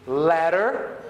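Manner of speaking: "Ladder" with a quick tapped d; American flap. Shown as a demonstration. Teacher to students, repeat with me: flapped d. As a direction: tap the middle of "Ladder" lightly. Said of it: "So, repeat with me".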